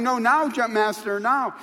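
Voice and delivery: high, loud insistence; shouting back. Retold or imitated. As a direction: shout it over the wind. Shouting back at jump master.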